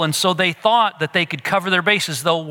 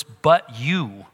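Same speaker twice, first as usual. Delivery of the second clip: "but" weighted, falling on "you"; stress on but; 5 semitones lower than usual. Shown as a demonstration. Preacher underlining the Hebrew emphasis: stress on "but". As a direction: lean on "but". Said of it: "the point of emphasis here in verse ten".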